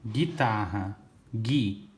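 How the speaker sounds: "Guitarra, gui" with hard G straight into I; U mudo. Shown as a demonstration. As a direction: say "Guitarra, gui" as GHI-tarra, GHI. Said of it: "Eu não ouço o som do U". ("Guitarra, gui" sem som de U)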